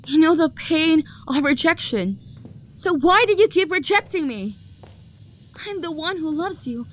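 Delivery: a rejected lover's bitter outburst; hurt anger. Acted. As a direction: build the jealous grievance. Jilted lover's rising outburst.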